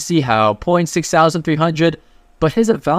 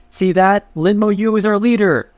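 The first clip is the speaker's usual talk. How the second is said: yelling out; 7 semitones higher than usual. Retold or imitated. Friend yelling to everyone, hammed-up proud shout. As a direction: shout it to the crowd, bragging. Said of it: "and he yells out".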